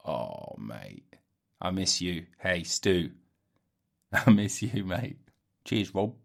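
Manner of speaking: lightly voiced housemate, low and soft; a bad, soft imitation of an old mate; terrible impression of Stu. Missing his housemate Stu, a poor soft impression. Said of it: "terrible impression".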